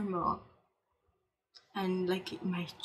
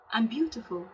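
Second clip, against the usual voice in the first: louder self-affirmation; 3 semitones higher, 5 dB louder than usual. Shown as a demonstration. Encouraging viewers to affirm themselves, spoken out loud. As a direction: proclaim it to yourself with pride. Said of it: "Yes, say that loud".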